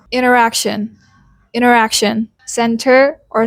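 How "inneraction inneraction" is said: "interaction" as "inneraction"; disappearing T. Shown as a demonstration. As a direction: say "interaction" with no T after the n. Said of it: "the T disappears completely in fast speech".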